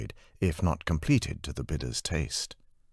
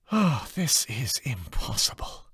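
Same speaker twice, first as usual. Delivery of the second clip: higher, exasperated groan of a line; frustrated artist; 10 semitones higher than usual. Acted. Anna despairing at her blurring glasswork, exasperated. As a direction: give up in a sigh.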